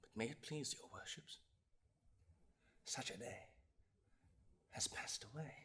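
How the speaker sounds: very soft, low address to the bench; grave near-whisper; solemn hush. Acted. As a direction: speak it low and reverently, with long pauses. Solemn turn in the oration.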